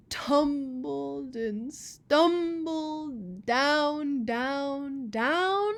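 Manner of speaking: loud, building with each down; dramatic tumble. Acted. Old Rock tumbling down, building loud. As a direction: let each down crash harder.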